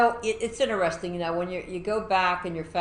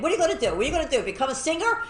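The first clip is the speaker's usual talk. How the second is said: mocking family; 8 semitones higher, much faster than usual. Family mocking singing ambition.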